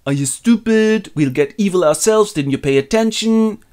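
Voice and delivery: high, exasperated rebuke; mock scolding. Aragorn answers Boromir's bad idea, high mock scolding. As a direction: scold him like a fool.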